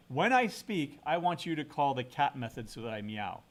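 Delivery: playful creature demand; voicing the cat dog. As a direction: speak as the cat dog giving orders. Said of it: "you have to say".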